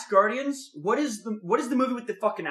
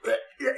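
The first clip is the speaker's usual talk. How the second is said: quick hacking "eh, eh"; imitated dry hacking; 3 semitones higher than usual. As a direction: mimic a baby owl trying to cough up. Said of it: "is he gonna cough up a hairball".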